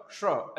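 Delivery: श drawn out with the tongue turned in; retroflex sha, slowly. Shown as a demonstration. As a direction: slowly say श, tongue curled inward. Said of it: "ऐसे अंदर करके". (जीभ अंदर मोड़कर धीमे से श)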